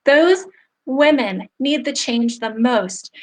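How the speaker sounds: pushing through tears for the women; choked up. Real, not acted. Salon owner describing women in shelters, choked up. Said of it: "I'm gonna get emotional".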